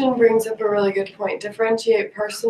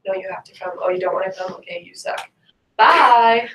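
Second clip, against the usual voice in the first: mock bossy; 4 dB louder than usual. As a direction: play a bossy therapist brushing someone off. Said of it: "just being bossy and being like".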